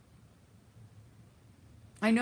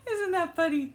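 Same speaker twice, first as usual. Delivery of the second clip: laughing; 13 semitones higher than usual. Real, not acted. Still laughing.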